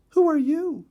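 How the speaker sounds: high, loud little bird voice, rudely; high pitched bluebird asking rudely. A narrator's reading. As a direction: snap it like a rude little bird. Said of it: "rather rudely".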